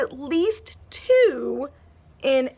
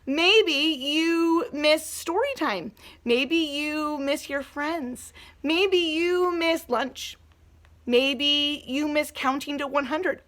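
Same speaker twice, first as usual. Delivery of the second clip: gentle; 4 dB quieter, slower than usual. Real, not acted. Teacher listing gentle examples.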